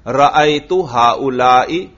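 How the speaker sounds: رأیت ہاؤلائی with the same short "i" ending; unchanged kasra ending. Shown as a demonstration. Teacher showing the fixed ending, kasra in accusative. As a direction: keep final "i" of ہاؤلائی after رأیت. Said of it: "ہر حال میں یہ زیر برقرار".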